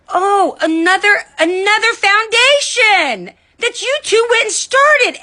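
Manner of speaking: sarcastic sneer. Real, not acted. Sneering at a rival's new foundation.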